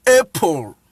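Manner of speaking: APPLE begun with "ay"; letter-name "ay" opening APPLE; English letter A in APPLE. Shown as a demonstration. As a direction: say APPLE as "AY-pol". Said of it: "pronouncing it in the English language".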